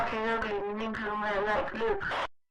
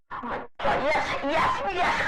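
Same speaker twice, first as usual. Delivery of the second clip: breathless delighted yes yes; cheering a win under the breath; giddy victory cheer; excited cheer; 3 semitones higher than usual. Real, not acted. Celebrating a win in game.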